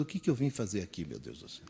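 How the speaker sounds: soft, lost self-question trailing off; puzzled mutter. Retold or imitated. Woman lost in her kitchen, softly puzzled. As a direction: ask yourself, baffled and quiet. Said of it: "fica que nem uma tonta se perguntando".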